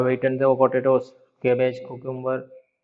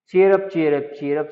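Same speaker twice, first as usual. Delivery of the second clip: sparrow call; 2 semitones higher, 4 dB louder than usual. Acted. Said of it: "say the sparrows".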